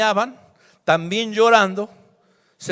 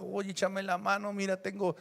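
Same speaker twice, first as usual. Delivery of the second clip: hushed, murmured aside prayer; soft and low, a private casual request; 3 semitones lower, 13 dB quieter than usual. Acted. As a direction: pray it quietly, almost to yourself. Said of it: "dijo así en silencio, en voz baja".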